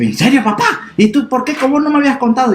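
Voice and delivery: pregunta aguda y rápida de sorpresa; niño sorprendido. Acted. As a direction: pregunta asombrado al papá. (el niño pregunta al papá, agudo y sorprendido)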